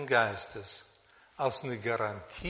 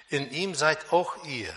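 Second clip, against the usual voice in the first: "auch ihr" picked out firmly at the end; emphatic weight on "auch ihr"; stress on AUCH IHR; 4 dB louder than usual. Shown as a demonstration. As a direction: read it out, leaning on "auch ihr".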